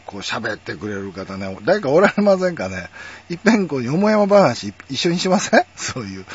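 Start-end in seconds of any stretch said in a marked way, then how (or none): 3.8-5.7 higher-pitched, ladylike standard-Japanese invitation; genteel standard-Japanese women's speech. Shown as a demonstration. Inviting someone to chat in this language, ladylike standard accent. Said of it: "この言葉でね".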